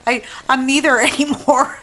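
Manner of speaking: giggling at her own joke; laughing. Real, not acted. Joking to viewers about her accent, laughing. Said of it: "I'm laughing".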